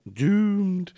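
high ominous doom cry; a quick prophet-of-doom call; Crazy Ross. Retold or imitated. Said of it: "something out of Dad's Army".

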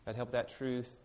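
prayer spoken quietly to God; closing prayer. Acted. Pastor leading the congregation in a hushed closing prayer.

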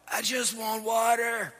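little daughter. Retold or imitated. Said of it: "She's like".

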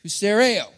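"Hustereo" with the ending said "ay-oh"; alternative Greek ending. Shown as a demonstration. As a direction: say "Hustereo" as the variant, stressed near the end. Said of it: "or ao".

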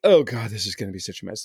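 a mild mock fret, muttered to oneself; imitating your own dread at a coming mess; worried self-talk. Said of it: "and I'm like".

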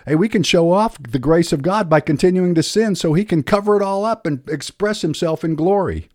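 mock voice of a sinner looking for a loophole. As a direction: play a smug loophole seeker. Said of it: "that's a dangerous proposition".

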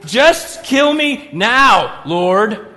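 slow, loud, overwrought plea; melodramatic Jonah. Retold or imitated. Jonah begs the Lord to end it, loud and slow, overdone. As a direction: ham up the sulking prophet.

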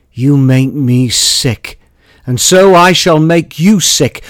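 intoning the poem as a stern matron; dramatic poem recitation. Acted. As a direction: declaim each line with weight. Performs his poem.

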